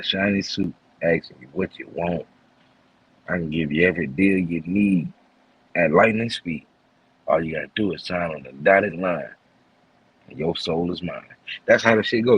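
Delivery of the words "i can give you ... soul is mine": lightly voiced smooth devil, a bit lower; a hint of a slick tempter closing the deal; smooth deal-making devil. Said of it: "You see, I made it rhyme, made it sound clever".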